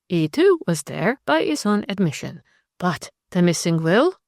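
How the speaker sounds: a cool Frenchwoman, voice lifted and unhurried; French lady. Acted. Narrator voices Zélie.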